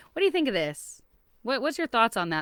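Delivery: "What do you think of this?" asked gently and lightly, lifted; gentle question. Shown as a demonstration. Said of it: "do it in that gentle way".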